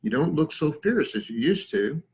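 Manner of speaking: put-on mildly patronizing old lion; condescending. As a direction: needle the upstart with mild condescension. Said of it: "in a very condescending way".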